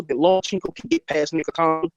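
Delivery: "Lomachenko" and "Nikitano" glitchy and choppy like a bad call; robotic, broken-up call audio; breaking up. Real, not acted. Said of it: "does he sound like a robot kind of?".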